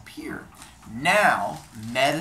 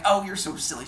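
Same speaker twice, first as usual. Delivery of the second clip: higher-pitched coquettish teasing; giggly flirting; 7 semitones higher, 4 dB louder than usual. Acted. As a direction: tease flirtatiously in a raised voice. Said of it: "they do the giggle flirty thing".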